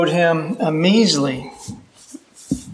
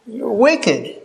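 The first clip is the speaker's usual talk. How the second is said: angry master; 3 semitones higher than usual. Retold or imitated. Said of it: "The master is angry".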